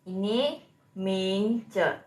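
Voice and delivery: slow careful Ming Ce, Ming rising; Mandarin Ming Ce. Shown as a demonstration. Teacher reading a vocabulary word to the live class, slow. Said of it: "artinya nama".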